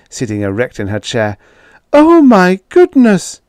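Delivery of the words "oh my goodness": much higher, much louder, drawn-out shriek; shrieking louder still. A narrator's reading. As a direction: let it peak into a full scandalized shriek. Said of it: "screamed Edith".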